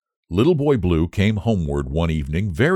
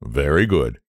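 cheerfully; 5 semitones lower than usual. Acted. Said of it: "said the squire cheerfully".

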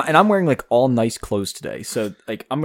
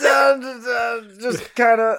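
imitating Rick; 11 semitones higher, 6 dB louder, slower than usual. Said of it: "he kinda goes like".

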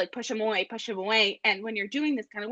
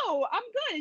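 high-pitched mock realization; sudden relief; 11 semitones higher than usual. Kid standing up in shallow water, sudden mock relief. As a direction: play a kid suddenly finding they're fine.

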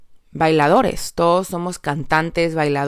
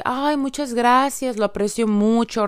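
gracious thanks; 5 semitones higher than usual. Shown as a demonstration. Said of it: "De que".

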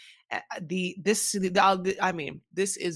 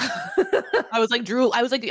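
laugh; 7 semitones higher, 10 dB louder than usual. Real, not acted. Excited retelling, laughing.

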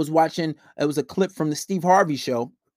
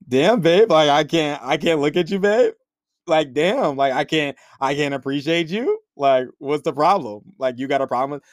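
a hint of a dazed guy who can't stop staring; lovestruck boyfriend. Boyfriend voiced defending his staring.

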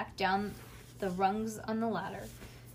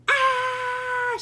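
long high screech; loud, sustained high scream; 10 dB louder than usual. A narrator's reading. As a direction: let out a piercing wordless screech. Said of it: "she screeched".

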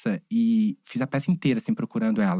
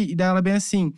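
ordinary delivery

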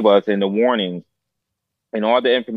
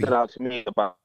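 choppy audio; 5 dB quieter than usual. Real, not acted. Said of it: "Your audio is choppy".

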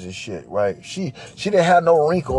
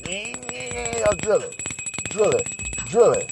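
slow and higher, stretched out; mock-straining drawn-out line; 5 semitones higher, 6 dB quieter than usual. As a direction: stretch the word in a strained high voice. Drawn-out, higher, breathy delivery.

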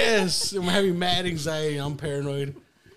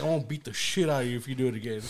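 angry threat; 5 semitones lower, faster than usual. Retold or imitated. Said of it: "I was so mad".

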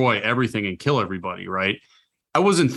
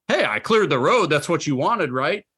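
proud snowplow; 4 semitones higher than usual. Pretend. Boastful worker tells his boss the road is cleared, pleased and smug. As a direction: act pleased with yourself, sure you did it right. Snowplow guy defends himself.

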